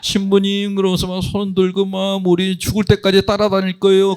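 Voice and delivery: imitating wailing churchgoers, high and strained; high-pitched, hammed-up tearful pleading; mock tearful parishioners. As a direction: mimic a weepy farewell pledge, pitched high. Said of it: "울기 시작하시는 거예요".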